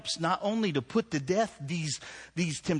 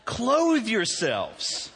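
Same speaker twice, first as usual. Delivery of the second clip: very slow Clothe yourselves said through laughter; laughing through it; 6 semitones higher, 4 dB louder, much slower than usual. Real, not acted. Preacher recovering from the story, laughing slowly. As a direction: laugh it back to the point.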